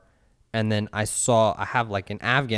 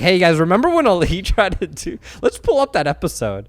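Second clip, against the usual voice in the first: mocking internet people; 9 semitones higher, 8 dB louder than usual. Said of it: "people are gonna be like".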